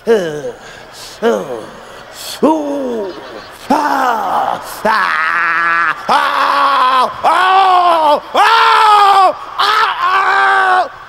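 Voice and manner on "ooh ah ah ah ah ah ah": climbing orgasm moans. Acted. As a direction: ride the moans up to a yell. Acting out a long orgasm.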